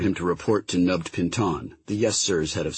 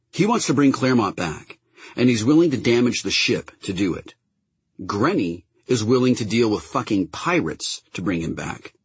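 heated captain; 3 semitones higher than usual. Acted. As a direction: argue it hotly, pitched up. Kiva voiced arguing.

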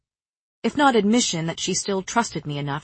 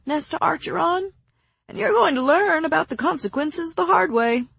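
much higher, pointed warning; stern warning; 10 semitones higher than usual. Acted. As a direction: lay down the warning. Cassian warning Nesta.

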